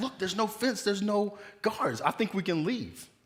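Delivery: high, slowed, excited and eager.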